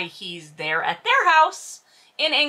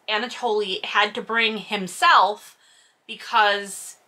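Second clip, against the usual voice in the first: ordinary talk, nothing marked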